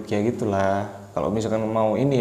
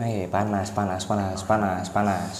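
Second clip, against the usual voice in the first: mock complaining; 4 semitones lower, 8 dB quieter than usual. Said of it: "maksudnya kan".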